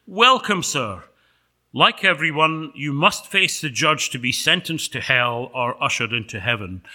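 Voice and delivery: loud, brisk official welcome; officious angel. Acted. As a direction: greet him like a court usher, projected. Angel greeting Paul in sketch.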